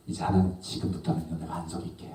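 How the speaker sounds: low, hushed promise to God; acted timid bargaining, very soft; sheepish prayer. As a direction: fade away as you promise.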